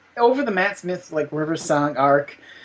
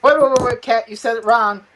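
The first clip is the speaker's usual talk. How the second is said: urgent higher calls; excited interruption; 4 semitones higher than usual. Real, not acted. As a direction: jump in to correct. Objecting loudly.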